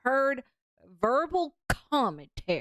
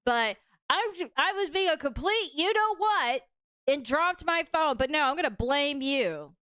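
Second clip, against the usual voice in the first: mock Karen; 5 semitones higher than usual. Continues mocking the Karen.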